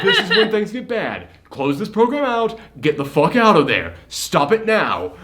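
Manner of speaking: exasperated mock warning, high then slowing firmly; mock exasperation. Viewer to movie character when things get bad, exasperated mock orders. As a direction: act out ordering a foolish character out.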